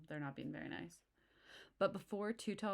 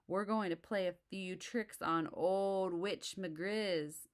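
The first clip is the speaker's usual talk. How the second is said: slow, louder sly plotting; sly bully; 3 semitones higher, 5 dB louder, slower than usual. Acted. Too Tall reveals the prank, slow and sly. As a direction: savour each word.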